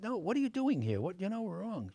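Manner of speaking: mock indignant brush-off; retold rebuff. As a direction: turn someone away, pitch jumping up. Casting woman's brusque rebuff, retold.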